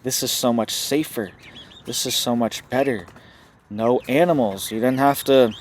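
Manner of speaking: lightly mocking upbeat sales talk; a hint of a smug corporate spokesman; mock sales pitch. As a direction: pitch it like a cheesy promoter, half joking. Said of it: "'cause they're gonna say".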